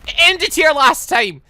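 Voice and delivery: loud, high dramatic cliffhanger shout; loud, high, thrilled outburst; excited exclaiming. Real, not acted. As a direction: announce the cliffhanger with big excitement.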